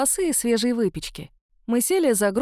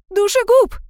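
shrill scream, much higher and louder; shrieking; 12 semitones higher, 9 dB louder than usual. A narrator's reading. Hysterical witness shrieking at the accused. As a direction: screech the accusation. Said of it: "визжала тётка".

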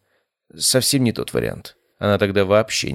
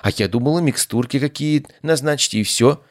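frightened voice; 6 semitones higher than usual. A narrator's reading. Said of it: "сказала она испуганным голосом".

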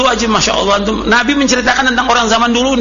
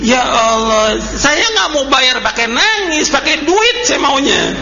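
slow, whiny, mock-tearful begging; hammed-up weepy prayer of a debtor dodging payment; mock crying plea; 4 semitones higher, much slower than usual. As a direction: imitate a debtor whining to God, slowly. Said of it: "pakai nangis lagi".

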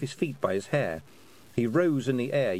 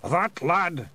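higher, loud Feegle pride; proud; 7 semitones higher, 3 dB louder than usual. Acted. A Feegle praising the young poet proudly, higher voice. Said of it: "he said proudly".

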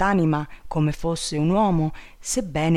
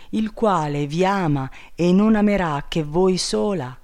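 lightly voiced king, a bit higher, gently consoling; tender bird king; 5 semitones higher, 5 dB louder than usual. Enchanted bird king consoles captive princess, tenderly. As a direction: soothe her with devoted tenderness.

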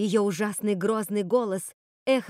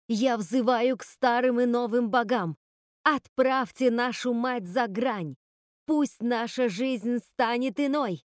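заклинание. Acted. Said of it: "быстро произнесла первые пришедшие на ум слова".

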